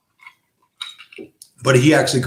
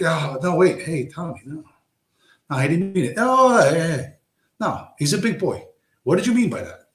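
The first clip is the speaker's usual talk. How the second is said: nervous bystanders; 4 semitones higher than usual. Retold or imitated. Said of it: "They're like".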